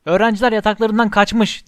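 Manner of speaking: high, loud shriek of alarm; a loud, high raise-the-alarm cry. A narrator's reading. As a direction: scream the news to the castle. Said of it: "diye haykırdı Peeves".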